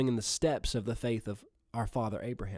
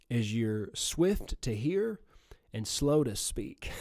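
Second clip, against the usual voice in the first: slow deliberate teaching; 3 semitones lower, 3 dB quieter, slower than usual. Acted. Preacher dwells on the verse.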